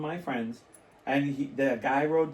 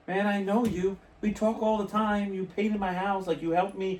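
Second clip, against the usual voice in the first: higher-pitched retold appeal; acted pleading protest; 6 semitones higher than usual. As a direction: plead your case as if to an offended friend. Acted plea to offended acquaintance.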